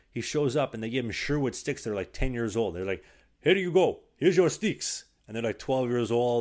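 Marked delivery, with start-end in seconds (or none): 3.4-5.0 high, loud mocking handover voice; mock team staff. Czech team giving him old sticks, high mock cheer. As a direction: hand them over with fake cheer.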